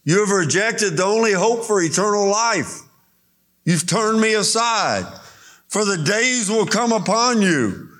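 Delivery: a lightly voiced Jesus, pleading. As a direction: cry out to Jerusalem as Jesus. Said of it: "Because he's telling them".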